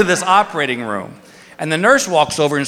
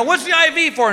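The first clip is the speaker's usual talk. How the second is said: nervous question; 10 semitones higher than usual. Retold or imitated. Nervous patient asks nurse.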